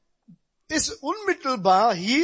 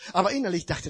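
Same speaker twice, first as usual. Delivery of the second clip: ordinary talk, nothing marked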